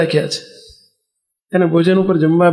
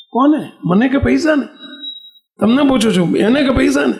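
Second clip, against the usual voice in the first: pointed questioning; 6 semitones higher than usual. Acted. Preacher presses audience with question.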